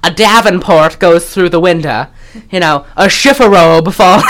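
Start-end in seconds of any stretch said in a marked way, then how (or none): 0.0-2.1 put-on light Mid-Atlantic accent; old movie-star Mid-Atlantic on "Davenport" and "window"; Katharine Hepburn. Narrating flying old-timey furniture, mock Mid-Atlantic accent. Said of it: "now I can use my Katharine Hepburn voice". 2.9-4.2 hint of Mid-Atlantic accent; lightly put-on old Hollywood Mid-Atlantic; Katharine Hepburn. Listing old-timey furniture, mock Mid-Atlantic accent. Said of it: "now I can use my Katharine Hepburn voice".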